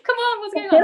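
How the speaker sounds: loud, high mock New Yorker; New York accent. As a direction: imitate kids with a strong New York accent. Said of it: "New Yorker accent".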